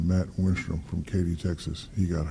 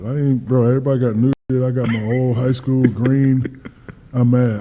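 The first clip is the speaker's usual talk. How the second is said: loud, riled-up retelling of the snub; half-relived anger, voice climbing loud; worked up; 4 semitones higher, 8 dB louder than usual. Retold or imitated. Reliving being ignored by the All-Americans, loud and riled.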